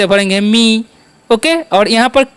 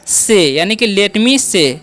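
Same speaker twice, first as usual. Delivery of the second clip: slow demo; much slower than usual. Shown as a demonstration. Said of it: "एस का उच्चारण क्या करना है?".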